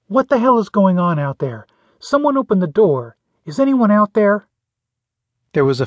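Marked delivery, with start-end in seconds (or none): 0.1-4.5 higher-pitched, restrained yell; muffled yell. A narrator's reading. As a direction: call out through a door, held back. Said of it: "a muffled voice yelled".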